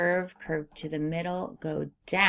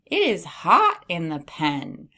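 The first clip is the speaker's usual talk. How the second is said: reading the sentence; 5 dB louder than usual. Shown as a demonstration. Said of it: "let's read our sentence".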